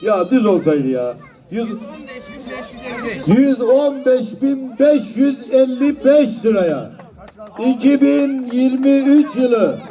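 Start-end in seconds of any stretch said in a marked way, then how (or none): 1.5-9.8 slow, drawn-out closing call; auctioneer. Acted. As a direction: announce the sale like an auctioneer.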